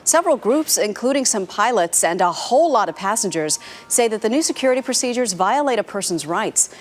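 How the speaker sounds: polished TV anchor lead-in with punched key words; news intro read. Real, not acted. Anchor introducing airport security story to viewers, news read.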